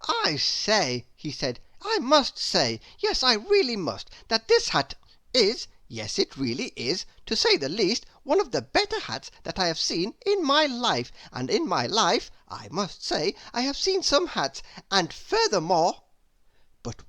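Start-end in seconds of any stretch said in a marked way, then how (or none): 0.1-1.1 breathless, eager chatterbox rambling on; a silly, delighted gossip who can't stop talking; chattering Mr Chatterbox. Acted. Chatterbox speaks. 1.8-16.0 breathless, eager chatterbox rambling on; a silly, delighted gossip who can't stop talking; chattering Mr Chatterbox. Acted. Chatterbox praises hat.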